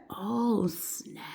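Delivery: breath falls away on the last word; a whispered, drawn-out realisation; stunned hush. Retold or imitated. Nurse learning he is the president, stunned.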